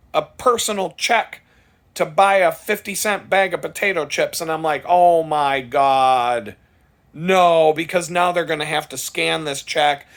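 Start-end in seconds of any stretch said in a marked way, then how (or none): 4.9-7.7 slow, stretched oh my God, then a louder no; drawn-out dismay. Retold or imitated. Watching the old lady write a check, slow dismayed groan. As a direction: groan it out in disbelief.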